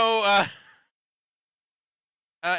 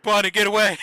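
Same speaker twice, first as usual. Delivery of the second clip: louder call to get away; mock warning yell; 2 semitones higher, 7 dB louder than usual. Viewer yelling at Bonnie in the show, loud warning. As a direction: shout a warning at the screen. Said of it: "and I was like".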